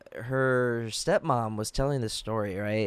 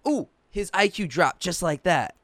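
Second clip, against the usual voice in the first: very sarcastic; 5 semitones higher than usual. Retold or imitated. Retelling the joke told to ex's family, very sarcastic. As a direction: put on mock amazement, dripping sarcasm. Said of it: "In a very sarcastic tone".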